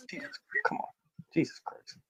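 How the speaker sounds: exasperated. Real, not acted. Cohost fed up that the Bears keep winning, exasperated. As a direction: throw your hands up in disbelief.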